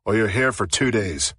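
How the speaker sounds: a light hint of an Irish brogue; lightly voiced Irish sergeant, curt. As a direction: sergeant giving her a phone call, light Irish brogue. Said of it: "he said in a heavy Irish brogue".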